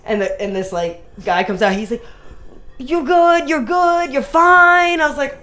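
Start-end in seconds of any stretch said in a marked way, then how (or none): 2.8-5.0 higher, hurried reassurance; mimicking the guy. Guy who hit her car reassuring her, higher pitched. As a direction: play the other driver fussing she's fine.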